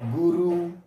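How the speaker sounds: dictating example. Shown as a demonstration. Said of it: "Kalimat ketiga".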